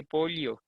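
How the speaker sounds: pollo echoed as "POL-yo"; mimicked ll pronunciation. Listeners querying her accent, pollo repeated as "POL-yo". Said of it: "me escucha y le hace gracia".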